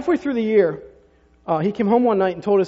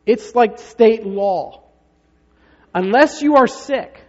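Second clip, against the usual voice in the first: slow, louder and higher mother voice; stern mom; 4 semitones higher, 6 dB louder, much slower than usual. Retold or imitated. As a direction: spell out the law to a five-year-old. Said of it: "Julie says to him".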